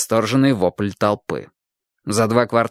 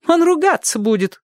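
much higher, protesting wife; woman's protest. A narrator's reading. Wife warns the roof man, high protest. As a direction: warn him he'll be cross. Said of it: "ответила женщина".

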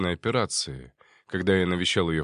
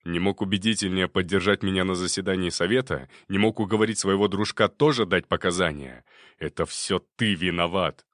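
angry. Acted. Kobylin blames nephew angrily.

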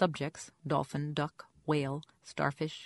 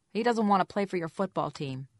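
raised, pushed squeaky caller; 4 semitones higher, 6 dB louder than usual. A narrator's reading. Caller fends off the investigator, squeaky voice. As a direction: squeak it a little, louder and higher. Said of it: "a Jane with a squeaky voice said".

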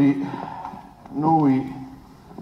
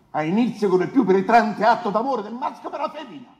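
fast, higher, laughing through the phrase; laughing while speaking; 7 semitones higher, 3 dB louder, faster than usual. Real, not acted. Defence lawyer to the court, laughing as he argues. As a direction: let a laugh break through as you press the point.

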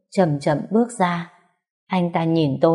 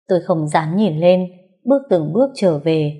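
normal talking voice

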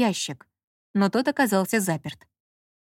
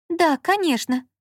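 warily; 8 semitones higher, slower than usual. A narrator's reading. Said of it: "с опаской проговорила Лола".

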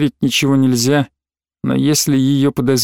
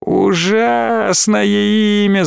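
very slow, higher, mocking mimicry; a girl mocks her mother through held-back tears; 6 semitones higher, much slower than usual. A narrator's reading. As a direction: ham it up, aping her mother. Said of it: "закривлялась Алина".

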